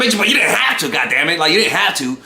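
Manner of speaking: half-acted rant at a crying date; retold angry outburst. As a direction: throw it back at her, fed up. Retold argument with crying girl.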